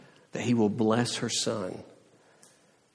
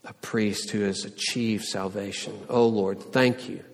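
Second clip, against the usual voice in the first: prayer. Acted. Closing prayer.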